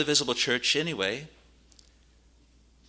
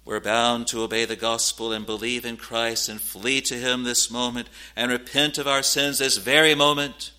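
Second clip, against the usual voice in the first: urgent preaching; 5 dB louder than usual. Real, not acted. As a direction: preach it with mounting force. Preacher presses the congregation urgently.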